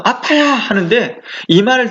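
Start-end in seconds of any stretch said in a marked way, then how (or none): 0.0-0.5 imitated sudden yelp, pitched high; startled cry. Startled person crying out: high mock yelp. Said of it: "깜짝 놀라서".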